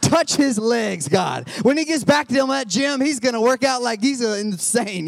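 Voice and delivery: retold fervent prayer. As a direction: pray aloud with fire. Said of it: "I was like".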